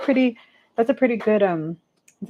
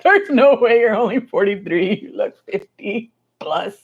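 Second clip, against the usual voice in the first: mock teasing; 4 semitones higher, 4 dB louder than usual. Mock-quoting viewers teasing her age.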